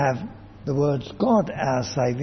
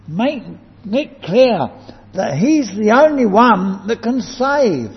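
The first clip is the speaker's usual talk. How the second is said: raised, forceful charge to a fellow preacher; emphatic, higher-pitched preaching; emphatic urging; 6 semitones higher, 4 dB louder than usual. Retold or imitated. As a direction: press each instruction home firmly. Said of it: "He was very emphatic".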